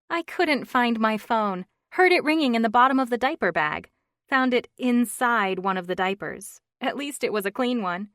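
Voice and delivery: lightly voiced chatty friend; flustered friend on the phone; chatty friend.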